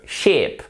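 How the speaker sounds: "Sheep" with an exaggerated long ee; insisted long vowel. Shown as a demonstration. Teacher overdoes it for learners, "Sheep" with a long ee. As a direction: lean on the ee of "Sheep" and let it fall. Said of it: "là, j'insiste un peu".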